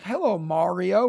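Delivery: "Mario" with an open "ah"; foreign-sounding pronunciation. Retold or imitated. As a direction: greet "Mario" as MAR-ee-oh. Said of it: "saying my name in French".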